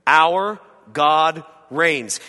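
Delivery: loud and very slow; "Our God reigns", proclaimed slowly and loudly; proclaiming. Shown as a demonstration. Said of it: "repeated with power".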